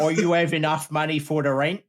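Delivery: improvised, shaky-footed go at New York; attempted New York accent. Kane asks Larry for rent, attempted New York accent. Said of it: "Go on, you try it".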